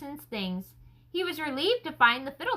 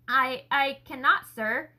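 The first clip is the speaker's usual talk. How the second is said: hesitant; slower than usual. Acted. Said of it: "Nathaniel spoke hesitantly".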